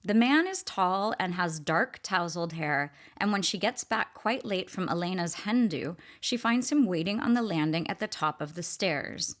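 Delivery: calm literary read-aloud. Shown as a demonstration. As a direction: read the opening line like a novel. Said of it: "the very first paragraph reads this".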